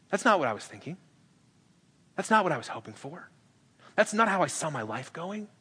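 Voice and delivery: quiet, dejected complaint; let-down. Retold or imitated. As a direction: sag as the plan slips away. Us disappointed by Jesus' plan.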